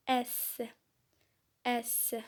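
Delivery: S as a long steady hiss through the teeth. Shown as a demonstration. Teacher showing pupils a long hissed S. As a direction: hold the S hiss as long as you can. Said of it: "Faites siffler le son S le plus longtemps possible".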